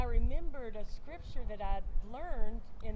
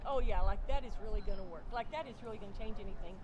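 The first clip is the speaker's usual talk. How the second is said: sarcastic. Retold or imitated. Sarcastic reply to the Lord.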